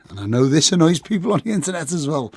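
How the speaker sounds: slightly hoarse, worn voice; croaky voice. Real, not acted. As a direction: speak with a croaky, tired throat. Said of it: "if my croaky voice wasn't enough".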